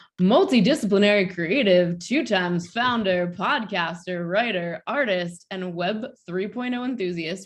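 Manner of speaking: big, hyped ring fight announcer voice. Introducing a guest to the audience, in a UFC announcer voice. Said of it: "I have to use like a U F C announcer voice".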